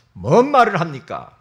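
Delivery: ordinary talk, nothing marked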